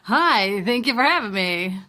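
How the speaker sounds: booming announcer welcome. Pretend. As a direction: greet like a radio announcer. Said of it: "was my announcer voice there".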